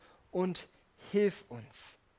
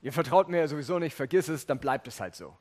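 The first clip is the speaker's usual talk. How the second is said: dismissive brush-off; 2 semitones lower than usual. Pretend. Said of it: "Es ist nicht zu sagen".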